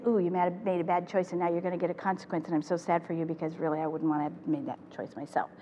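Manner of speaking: fast, then fading to soft; unspoken meaning, softly. Shown as a demonstration. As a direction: rush the thought, then let it sink quietly. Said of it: "I'm not saying any of those words".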